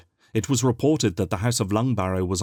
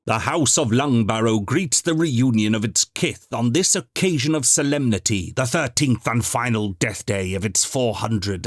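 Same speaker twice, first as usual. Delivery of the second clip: formal proclamation. A narrator's reading. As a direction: proclaim it to the whole house. Housekeeper's formal announcement.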